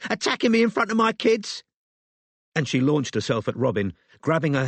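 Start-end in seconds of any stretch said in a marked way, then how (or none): 0.1-1.6 high furious scream. A narrator's reading. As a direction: scream it at her. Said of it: "screamed Elisa".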